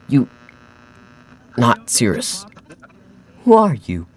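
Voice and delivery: high, stressed NOT, erratic voice; crazed man. Acted. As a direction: demand an answer, half mad. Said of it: "He spoke erratically with a crazed smile".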